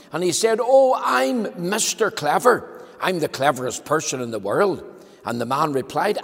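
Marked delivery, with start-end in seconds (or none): 0.6-4.8 proud Mister Clever. Acted. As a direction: announce yourself grandly. Mister Clever boasting to a man.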